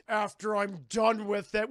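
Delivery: a hint of a hammed-up creep; creepy mock voice. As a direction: draw it out loudly as a creepy character. Teller voices a creepy Fred.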